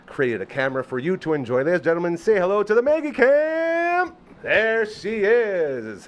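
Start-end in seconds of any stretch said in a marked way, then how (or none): 1.6-6.1 big, high, slow announcer voice; grand announcer reveal. Acted. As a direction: unveil it like a game show host. Host unveils the new camera.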